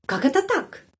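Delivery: high, indignant Как это так; emotional. Shown as a demonstration. Teacher shows the phrase said with emotion to students. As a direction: fling it out in disbelief. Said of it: "dengan emosi".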